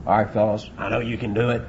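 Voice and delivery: low, subdued coach to his team. Acted. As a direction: quietly reassure the players, little punch. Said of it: "I've listened to the coaches".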